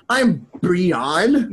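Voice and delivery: "Brian" said as bree-AHN, rising at the end; affected name pronunciation. Retold or imitated. Client correcting the wedding DJ on a name, affected. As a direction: stretch "Brian" into a French-style bree-AHN. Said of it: "they're like".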